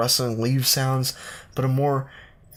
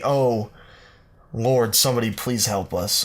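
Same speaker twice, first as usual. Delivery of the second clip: mock cry for help; 2 semitones higher, 3 dB louder than usual. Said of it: "you cry out into the night".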